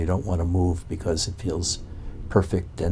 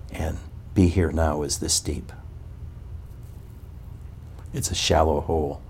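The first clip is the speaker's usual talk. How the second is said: ordinary delivery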